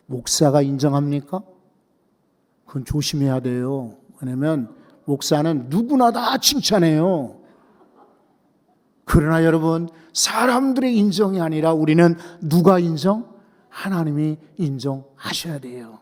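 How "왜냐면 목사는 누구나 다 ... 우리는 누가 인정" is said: usual speaking voice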